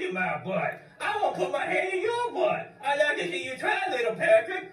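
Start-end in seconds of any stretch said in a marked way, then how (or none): 1.0-2.7 high squeaky puppet voice, shouting back; cheeky high-pitched dummy; squeaky ventriloquist dummy. Acted. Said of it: "ventriloquist dummy".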